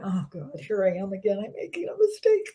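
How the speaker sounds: hammed-up worried inner ego; fretting ego. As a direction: play the little panicking ego, lightly. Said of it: "feel your ego going".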